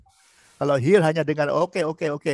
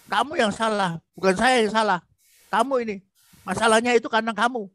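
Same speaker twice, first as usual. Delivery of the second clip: higher-pitched mock blaming; blaming spouse; 4 semitones higher than usual. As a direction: point the finger at her, voice up. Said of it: "Jadi itu menentukan benar salah". (suami menyalahkan istri, nada tinggi)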